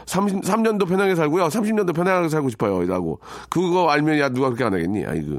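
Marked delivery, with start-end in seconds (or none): 0.1-2.8 살짝 높여 흉내 낸 학생 말투; lightly voiced student answering back in a higher pitch; pretend student. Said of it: "그럴 때 학생이". (어른에게 대답하는 학생을 가볍게 흉내)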